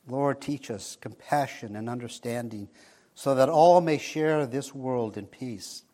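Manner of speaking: hushed earnest prayer voice. Acted. Closing prayer.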